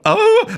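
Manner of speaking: very high startled squeak into laugh; mock stunned squeak. Mocking lawmakers left speechless, high squeal. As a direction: squeal then collapse laughing. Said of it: "they go".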